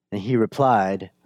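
ordinary talk

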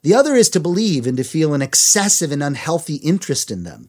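measured, emphatic read-aloud; reading a quote aloud. A narrator's reading. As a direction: read it out clearly to listeners. Reads a book quote.

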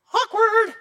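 very high, loud squeaky awkward; comic awkward. Acted. Pastor mocking the tense room, squealed high and loud.

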